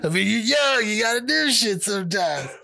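high, loud words out of a laugh; real laughing. Real, not acted. Joking to co-host about being young, laughing. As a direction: still cracking up, voice lifted high.

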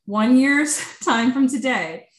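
foretell it with measured weight; prophetic. Real, not acted. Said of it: "I'm being prophetic right now".

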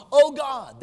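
brief acted cry of distress. Preacher showing how Asaph cried to God alone, crying out. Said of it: "cry out with your voice to God".

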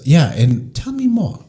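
high-pitched mock-Asian doctor; bad Asian accent. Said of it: "sorry for my worst Asian accent".

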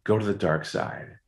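lightly voiced tempting inner voice. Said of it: "a voice inside of me said".

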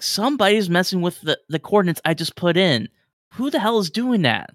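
high, fast, exasperated complaint; indignant crewman. Acted. Crewman complaining to the navigators, high and exasperated. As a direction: rant about the meddling, rising.

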